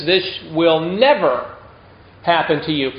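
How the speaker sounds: quoted refusal weighted on "never"; emphatic no. Retold or imitated. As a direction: lean firmly on "never", then pause. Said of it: "I would say emphatically no".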